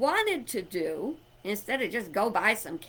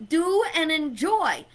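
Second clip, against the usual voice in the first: imitating upset daughter; 5 semitones higher, faster than usual. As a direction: replay her frustrated protest in a high, rushed voice. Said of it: "And she got mad".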